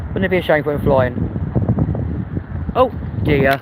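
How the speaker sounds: slow, sly threat about the cake; slow teasing menace over a cake; mock sinister tease. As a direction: drawl it like a pantomime villain, lightly.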